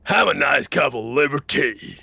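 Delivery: put-on 1 Southern accent. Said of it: "Can you say".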